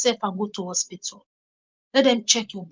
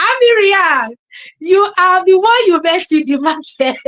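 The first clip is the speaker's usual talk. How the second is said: playful viewer voice; 7 semitones higher, 6 dB louder than usual. Pretend. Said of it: "tell me in the comment section".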